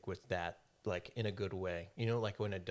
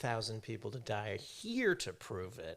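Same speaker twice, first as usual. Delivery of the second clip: laughing; 7 dB louder than usual. Real, not acted. To the friend, a louder, slower joke through laughter. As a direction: say it loud and slow through a laugh.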